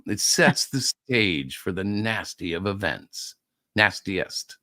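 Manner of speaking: slow, low mock Catholic Italian accent; terrible Italian accent. Teasing the Cardinal story, badly attempted Italian accent. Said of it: "terrible attempt at an Italian accent".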